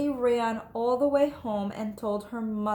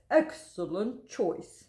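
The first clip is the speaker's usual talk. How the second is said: approving teacher; slower than usual. Acted. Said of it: "said Mister Slinger".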